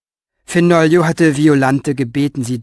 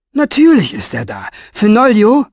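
louder, higher call rising at the end; 7 semitones higher, 6 dB louder than usual. Acted. Minerva calls Fenoglio from outside the door, loud and firm. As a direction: call firmly for him to answer.

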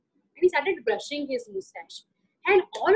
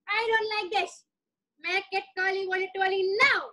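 a touch higher, fussy king; lightly voiced cross Raja; 3 semitones higher than usual. Raja complains to the scared cook, mildly cross. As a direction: demand it like a sulky king.

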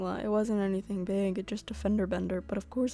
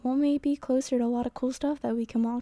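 put-on teen daughter voice; 3 semitones higher, 3 dB louder than usual. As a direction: chirp like an eager teen.

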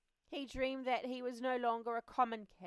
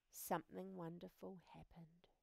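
whisper; 3 semitones lower, 9 dB quieter than usual. A narrator's reading. Wonder at transformation.

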